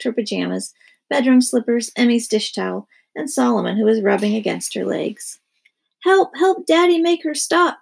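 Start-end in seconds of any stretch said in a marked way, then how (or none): 6.0-7.8 high, loud panicked yell; yelling boys. Acted. Boys yelling to Daddy for help, loud and high. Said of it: "yelled the boys".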